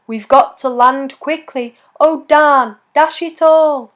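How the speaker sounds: sick Santa calling. Acted. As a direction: call out to the reindeer as a poorly Santa. Sick Santa calls his reindeer.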